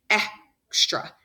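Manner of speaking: "Extra" with a short e as in "egg"; demonstrating short e. Shown as a demonstration. Teacher sounding out "Extra" for the class. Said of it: "I hear the short sound".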